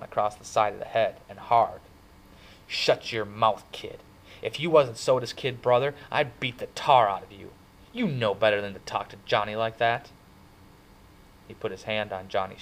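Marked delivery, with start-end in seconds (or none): 2.7-10.1 louder, stern threatening rebuke; stern scolding. Acted. Two-Bit scolds Ponyboy for hurting Johnny, stern. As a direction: put the kid in his place.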